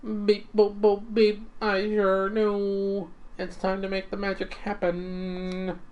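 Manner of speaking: a cheerful cooking robot, sure of himself; robot chef. Acted.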